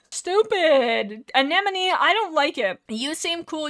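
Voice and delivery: loud, drawn-out pout; hammed-up exasperation; mock tantrum. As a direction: whine it out loudly in frustration.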